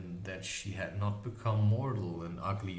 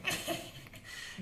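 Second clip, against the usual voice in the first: witch cackle; 6 dB quieter than usual. A narrator's reading. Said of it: "She laughed again".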